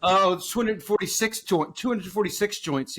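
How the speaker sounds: Rain Man voice. Pretend. Rain Man counting joke.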